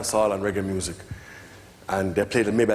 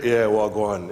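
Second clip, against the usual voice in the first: low laid-back Jamaican. Retold or imitated. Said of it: "they're speaking low tones".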